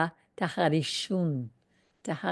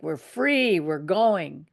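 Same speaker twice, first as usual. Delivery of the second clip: triumphant; slower than usual. Retold or imitated. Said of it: "When you raise your hands, like".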